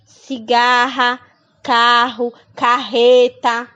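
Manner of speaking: Cigarra, carro, carreta slowly with throaty RR; strong double R. Shown as a demonstration. Teacher listing words with the double R. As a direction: drag each word and push the RR. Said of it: "para poder ter um som forte".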